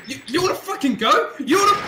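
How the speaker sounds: loud, high wanna-fight yell; loud, high playful threat; mock challenge. Real, not acted. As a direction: call him out, half-joking.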